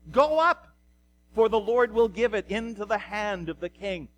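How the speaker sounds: emphatic call easing into measured pronouncement; prophets in unison. Acted. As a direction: proclaim it firmly as a crowd's answer. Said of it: "the answer is given in one voice".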